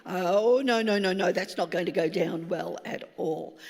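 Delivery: a mother bear stepping in; mock stern warning that fades down; protective mum warning.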